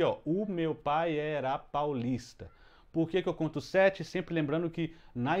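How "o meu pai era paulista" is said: very slow, each syllable spaced out; slow syllable count; counting syllables aloud. Shown as a demonstration. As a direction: tap out the syllables one by one. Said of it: "se eu contar aqui".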